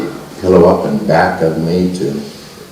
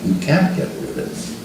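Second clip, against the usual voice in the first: whispered, much softer, tender quote; hushed whisper; 4 semitones higher, 8 dB quieter than usual. Retold or imitated. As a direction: breathe the words out softly in a whisper. Quoting Baba again, hushed.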